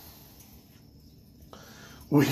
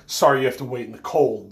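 put-on English accent; 4 dB louder than usual. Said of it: "in his crazy English accent".

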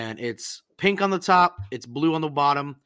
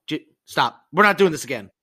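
louder, fed-up scolding; exasperated; 7 dB louder than usual. Real, not acted. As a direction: shut the argument down, louder. Exasperated at friend.

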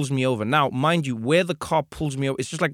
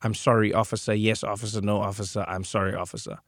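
scared passenger; 3 semitones lower than usual. Retold or imitated. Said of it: "the terror of my American passenger".

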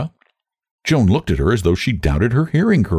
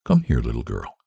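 low, gentle minister; kindly low invitation; pleasant; 8 semitones lower, 4 dB quieter than usual. A narrator's reading. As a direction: coax the child over in a low voice. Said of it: "he said pleasantly".

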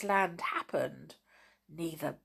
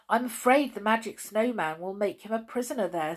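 Moonface voice; 4 semitones higher, faster than usual. Acted. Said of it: "said Moonface".

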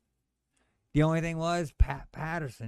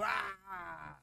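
mock yell; 5 semitones higher, 7 dB quieter than usual. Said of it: "just jump up and go".

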